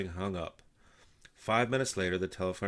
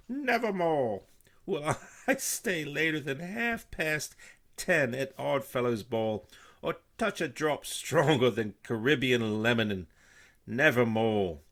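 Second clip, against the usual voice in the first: high, slow, startled voice; startled mailman; 6 semitones higher, 7 dB louder, slower than usual. A narrator's reading. Mailman startled by the crow, high and slow. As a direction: gasp out the words in shock.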